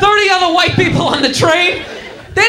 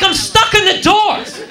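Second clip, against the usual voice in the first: slow, higher-pitched exasperation; flipping out; 4 semitones higher, slower than usual. Acted. Stuck passenger explaining himself to the conductor, exasperated protest. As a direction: drag it out in mock exasperation. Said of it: "the dude at the door flips out".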